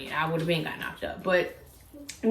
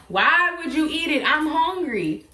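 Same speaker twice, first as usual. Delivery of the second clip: mock crying; 8 semitones higher than usual. To the boyfriend who ate her food, a high teary whine. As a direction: whimper it like a spoiled kid. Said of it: "I cried more".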